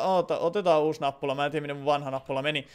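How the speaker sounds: ordinary talk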